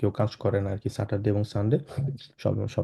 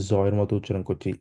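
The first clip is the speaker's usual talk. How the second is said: whispered. Real, not acted. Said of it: "whispered aside".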